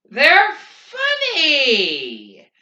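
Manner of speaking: high, loud, drawn-out hysterical cry. A narrator's reading. Garrity answering his friend, nearly weeping with laughter, hysterical. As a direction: wail it out, helpless with mirth. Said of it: "nearly weeping with laughter".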